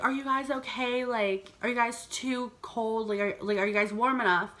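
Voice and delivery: soft, concerned asking after them; caring. Retold or imitated. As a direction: gently check they are warm. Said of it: "in the most loving way possible".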